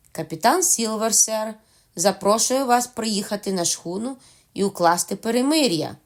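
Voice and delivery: pirate hailing the captain from afar; shouting. Acted. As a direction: shout the message to the stockade. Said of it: "прокричав він".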